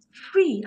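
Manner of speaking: "free" set apart and emphasized; single out "free" with firm stress. Real, not acted. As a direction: put emphasis on the word "free", letting it stand alone. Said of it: "I insist on the word free".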